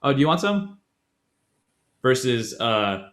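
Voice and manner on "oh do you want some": lightly acted, higher-pitched "oh" of noticing; offhand offer, pitched up a little; as if coffee just came up; casual coffee offer. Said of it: "you're setting the tone for the conversation".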